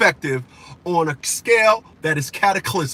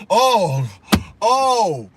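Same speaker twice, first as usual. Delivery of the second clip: mock crying; much slower than usual. Woman cries in court.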